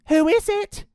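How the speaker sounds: put-on high child's call; young joey calling. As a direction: call out high to whoever is at the door. Jackie calls to the door.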